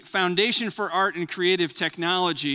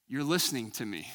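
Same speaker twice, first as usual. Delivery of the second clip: retold, much softer and lower; very quiet; 7 semitones lower, 7 dB quieter than usual. Angry caller finally feels heard, very quiet. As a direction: let it fall away to almost nothing, realizing. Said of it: "says very quietly".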